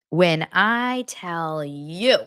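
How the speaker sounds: very slow, stretched out; slow teasing build-up; drawn-out emphasis. Shown as a demonstration. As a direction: drag out each word for effect.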